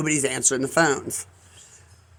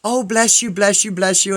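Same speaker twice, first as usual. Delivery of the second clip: effusive thanks; 3 semitones higher than usual. Retold or imitated. Imitates grateful woman at the scene.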